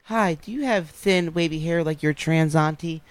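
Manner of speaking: ad voice. Retold or imitated. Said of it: "commercials that'll be like".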